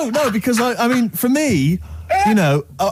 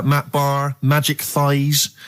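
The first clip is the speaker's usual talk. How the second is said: slow name reading; much slower than usual. Shown as a demonstration. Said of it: "that's not Matt Barr's Magic Thighs".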